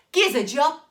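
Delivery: put-on loud boy's request; cheerful boy asking loudly; Jack voice. A narrator's reading. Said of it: "And Jack said".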